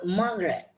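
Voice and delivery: "Margaret" stressed on its first syllable. Shown as a demonstration. Teacher showing a class where stress falls, first-syllable stress. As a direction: lean on the opening M syllable of "Margaret". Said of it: "So M is stress".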